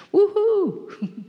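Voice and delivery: excited cheer. Acted. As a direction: whoop it up with joy. Cheering the lottery joke.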